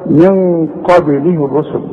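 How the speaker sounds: slow chanted recitation, bounced ب in قبله; qalqalah on قبله. Shown as a demonstration. Teacher repeating the verse for students, qalqalah on قبله. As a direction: let the b of قبله echo before the l. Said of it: "اوعى تنسى القلقلة".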